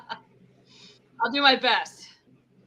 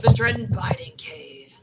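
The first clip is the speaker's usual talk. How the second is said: whisper; slower than usual. Pretend. Repeating the punchline in a hush.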